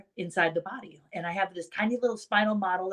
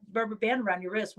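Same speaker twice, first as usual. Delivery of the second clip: normal talking voice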